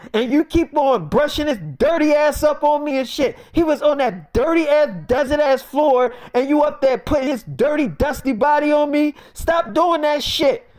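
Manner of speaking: high-pitched, punched-out complaint; acting out an agitated friend; disgusted rant. Acted rant about dirty body.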